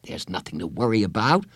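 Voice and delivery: mildly reassuring, in an easy voice; calm a nervous friend; understated reassurance; assuring. Acted. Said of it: "he said assuringly".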